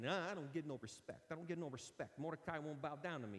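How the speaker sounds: a lightly voiced, self-pitying comedian's complaint; a half-hearted whine, barely off the preacher's own voice; a hint of a sad-sack comic moaning about respect; Rodney Dangerfield impression. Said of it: "that's a terrible Rodney Dangerfield".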